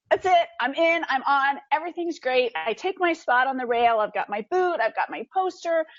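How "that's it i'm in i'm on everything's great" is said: high, giddy rush of triumph; elated. Retold or imitated. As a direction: celebrate like you've won. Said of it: "So I'm like".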